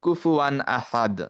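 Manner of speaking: slow Quran recitation of the example; slow recitation demo. Shown as a demonstration. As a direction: recite ওয়ালাম ইয়াকুল্লাহু slowly, joining the lam. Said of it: "যেমন, এখানে হচ্ছে".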